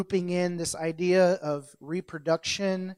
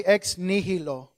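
Spanish-like accent. Shown as a demonstration. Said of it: "put a little bit of flavor".

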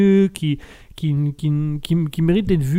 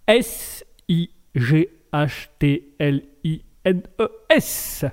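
spelled out slowly; much slower than usual. Shown as a demonstration. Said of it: "alors je vous l'épelle".

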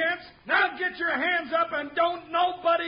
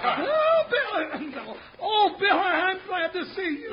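relieved laughter; 2 semitones higher, slower than usual. Acted. Rescued, relieved laughing greeting.

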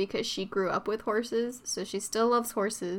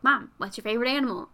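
put-on little kid voice; faster than usual. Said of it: "that's my little kid voice".

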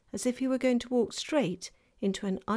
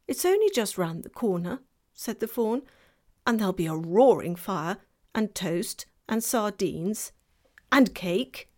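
fawn voice; 5 dB louder than usual. Acted.

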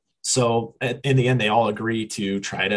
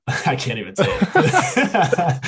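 higher, laughing through the words; 7 semitones higher, slower than usual. Real, not acted. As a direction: crack up at your own fumble. Cracks up failing to pronounce name.

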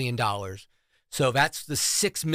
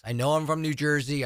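ordinary delivery

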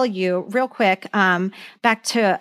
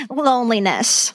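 lightly imitated comedian's punchline; a hint of a famous game-show wit; Paul Lynde impersonation. Podcaster delivering a star's one-liner to her co-hosts, light impersonation. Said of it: "that was a good".

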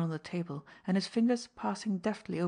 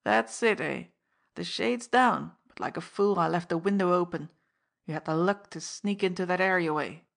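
put-on bitter old fence; 5 dB louder than usual. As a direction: grumble at his own carelessness.

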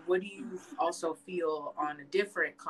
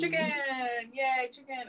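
put-on higher-pitched childlike cheer; delighted kid cheering; 6 semitones higher, slower than usual. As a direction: cheer like a kid served a favourite dinner. Acting out her delighted childhood self.

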